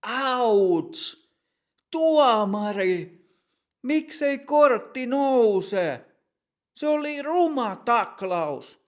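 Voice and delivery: high, loud, slow outraged yell at the referee; angry protest shout. Acted. Matti yelling at the referee after a foul, outraged and loud. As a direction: howl in pain then demand the card. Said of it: "Matti huutaa".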